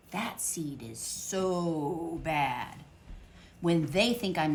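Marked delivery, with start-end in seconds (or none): 0.1-2.8 disdainful seeds. Acted. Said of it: "they say".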